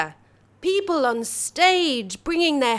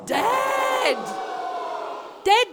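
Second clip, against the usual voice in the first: campy drag queen; 3 semitones higher than usual. Acted. Campy host Monsterina addressing audience.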